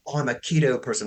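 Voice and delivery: lightly put-on Australian accent, mocking a keto fan; a hint of an Australian influencer voice. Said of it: "I don't know why I use an Australian accent".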